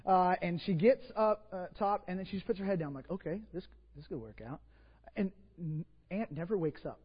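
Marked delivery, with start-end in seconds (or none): 3.1-4.6 hushed, under the breath; quiet inner thought. Retold or imitated. Preacher on a plane, hushed inner thought. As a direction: mutter it to yourself, half hopeful.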